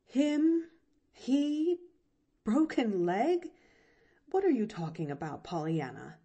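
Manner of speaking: sharp puzzled questions, then rushed; startled aunt. A narrator's reading. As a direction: caught off guard, demanding. Aunt's surprise.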